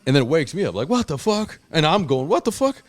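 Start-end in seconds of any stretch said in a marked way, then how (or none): 0.9-1.6 acted jolt awake, voice shooting up; startled outburst. Jolted awake, acting out reaction. 2.3-2.8 startled outburst. Retold or imitated. Repeats his startled waking reaction.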